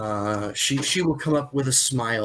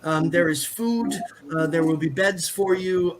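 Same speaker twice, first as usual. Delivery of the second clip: troubled; 5 semitones higher than usual. Acted. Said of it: "she looks a little troubled".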